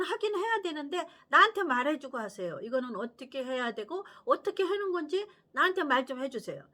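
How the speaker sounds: put-on loud, urgent little girl crying "wait, daddy"; child pleading with dad. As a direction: granddaughter demanding her father stop the game. Four-year-old pleading with dad.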